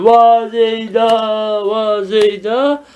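slow, drawn-out mourning call; mock lament. Teacher demonstrating a mourner crying after dead Zeyd, mock lament. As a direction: stretch each cry like a mock keening mourner. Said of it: "arkadan böyle yapıyor".

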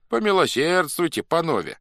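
high-pitched plea; pleading. A narrator's reading. Elected old Cossack begs off, pleading. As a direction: beg them to spare you.

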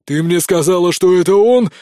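loud, rising to a near howl; almost howling. A narrator's reading. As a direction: build until it breaks into a wail. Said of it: "чуть ли не взвыл принц".

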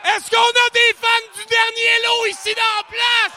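high, loud crowd hype; hype shout. Real, not acted. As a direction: pump up the room like an emcee. Hyping the crowd at event.

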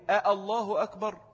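short separate آه, then الله أكبر; two distinct glottal onsets in آه الله, not merged; همزتان منفصلتان. Shown as a demonstration. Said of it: "هي أصلها إيه؟". («آه الله أكبر» بهمزتين منفصلتين)

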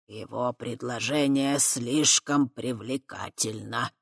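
stern elder. A narrator's reading. Elder Chernozub firmly overruling Tai. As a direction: refuse her firmly. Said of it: "жёстко ответил ей Чернозуб".

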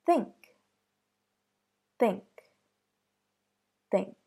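"Think" with an airy unvoiced th; "Think" with the tongue tip darting between the teeth; "Think" with a crisp breathy th; unvoiced TH demo. Shown as a demonstration. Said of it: "Next example".

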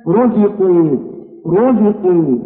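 رزقوا with a full, thick ra; heavy r in رزقوا. Shown as a demonstration. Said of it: "هكذا تنطق رو".

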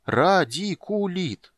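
"Радикулит" drawn out very slowly, syllable by syllable; slow, savouring. A narrator's reading. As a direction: taste each syllable of "Радикулит", high and slow. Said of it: "медленно повторил Тасс, пробуя слово на вкус". (медленно смакуя «Радикулит»)

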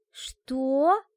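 выше и громче, в шоке; вскрикни от потрясения; изумлённо. Acted. Ашка поражена новостью. (потрясённое «что» девушки)

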